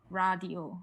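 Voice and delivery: "radio" with a fully rolled English R; English accent. Shown as a demonstration. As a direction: say "radio" the English way, tongue curled all the way. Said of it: "say an English accent".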